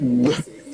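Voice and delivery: Gb as one short doubled stop; hard gb sound. Shown as a demonstration. Showing how they are not pronounced, a heavy Gb. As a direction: say Gb with g and b at once. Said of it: "they are not pronounced".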